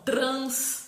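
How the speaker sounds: TRANS as one long, firm syllable; single-syllable demonstration. Shown as a demonstration. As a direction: stretch TRANS out in one beat. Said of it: "tudo numa sílaba só".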